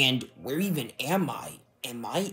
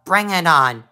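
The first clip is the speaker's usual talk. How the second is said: louder, higher challenge that cracks; 5 semitones higher, 7 dB louder than usual. Acted. Impostor king accepts the battle, voice cracking. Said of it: "Why do you sound like that?".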